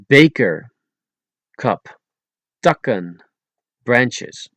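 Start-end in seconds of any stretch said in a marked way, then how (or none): 0.1-0.6 Beker with K free of any puff; unblown K. Shown as a demonstration. Teacher showing Dutch letters, Beker with unblown K. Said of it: "without blowing those three letters". 2.6-3.2 Takken with no puff on T or K; unblown T and K. Shown as a demonstration. Teacher showing Dutch letters, Takken with unblown T and K. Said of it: "without blowing those three letters".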